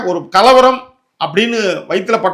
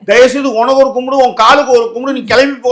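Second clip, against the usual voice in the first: higher, louder mock begging to leave; exasperated plea; 4 semitones higher, 4 dB louder than usual. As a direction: beg them off, fed up and loud. Acted fed-up plea to leave. (சலிப்போடு உரத்த குரலில் கெஞ்சல்)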